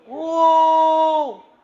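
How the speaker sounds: very high, loud mock shout; hammed-up angry wow; outraged shout. Parent shouts at teacher.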